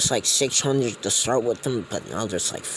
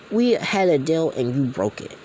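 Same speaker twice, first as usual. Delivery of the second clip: higher, louder, accusing; angry accusation; 5 semitones higher, 4 dB louder than usual. Retold or imitated. Gang boss accuses Shiro's dad, raised and angry. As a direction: throw the betrayal in his face.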